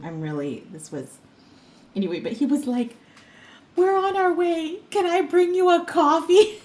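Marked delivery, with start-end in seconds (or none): 3.8-6.6 sweeten it like a guy smoothing things over; mock cheerful mover. Mover offering her coffee to make up for lateness, high and sweet.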